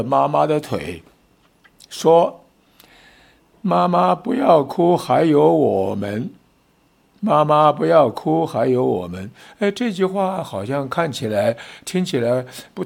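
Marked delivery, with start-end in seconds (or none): 3.6-9.3 put-on small child's plea. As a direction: plead like toddlers clinging to mom's leg. Small kids hugging mom's leg.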